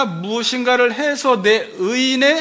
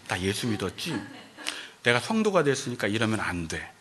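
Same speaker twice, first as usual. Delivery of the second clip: self-restraint; 11 semitones lower, 8 dB quieter than usual. Retold or imitated. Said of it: "그래서 참는 거예요".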